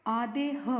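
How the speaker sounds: आधे ह with a short breath of h at the end; half-h sound. Shown as a demonstration. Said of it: "इसका उच्चारण".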